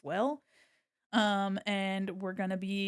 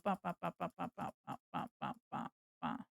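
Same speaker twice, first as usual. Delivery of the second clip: bop; 4 semitones lower, 12 dB quieter than usual. Real, not acted. Sound effect while clicking in software.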